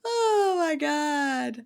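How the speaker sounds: slow, high, laugh-cry oh my God; laughing disbelief. Real, not acted. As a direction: crack up in disbelief. Reacting to absurd story.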